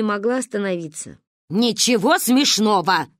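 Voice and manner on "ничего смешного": curt rebuke. Acted. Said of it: "отрезала Ба".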